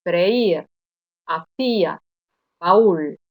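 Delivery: freír, hacía, baúl with the weak í and ú stressed and split off; slow teacher's split: fre-ÍR, ha-CÍ-a, ba-ÚL; pronunciación didáctica del hiato; clear hiatus demo. Shown as a demonstration. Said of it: "Vuelvo a pronunciarlas".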